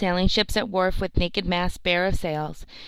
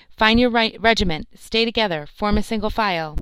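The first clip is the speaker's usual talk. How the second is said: loud barked orders to soldiers, higher; guard shouting; 3 semitones higher, 4 dB louder than usual. Acted. A guard shouting orders to the milling soldiers, loud. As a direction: call the orders out across the hold. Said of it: "shouted out".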